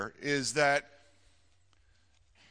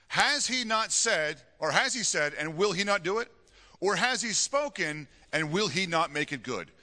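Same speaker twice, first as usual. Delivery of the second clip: measured, emphatic Bible reading; scripture reading. Acted. Pastor reading Numbers to his congregation, measured scripture reading. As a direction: read the verse out firmly, phrase by phrase.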